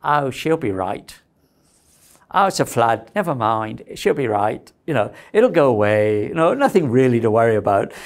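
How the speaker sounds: put-on a light, unhurried Australian accent. Lecturer mimics a relaxed Australian shrugging off disaster, light Australian accent. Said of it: "you have to say in Australian accent".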